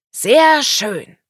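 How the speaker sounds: loud, high-pitched praise; hearty compliment, voice lifted; praising. A narrator's reading. Hans praises the carol singing, loud and approving. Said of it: "lobte Hans".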